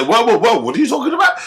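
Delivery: a hammed-up mum protesting; mock outraged mother cutting him off; indignant mum. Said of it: "she didn't pull him up and say".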